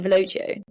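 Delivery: "LOH-chee-oh" ending on Velocio; own pronunciation. Shown as a demonstration. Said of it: "I pronounce it".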